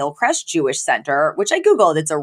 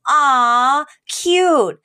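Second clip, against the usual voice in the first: high, cooing proud mother; mother coos at the kissing cousins; cooing Sylvia; 8 semitones higher than usual. Retold or imitated. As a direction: gush over the happy couple.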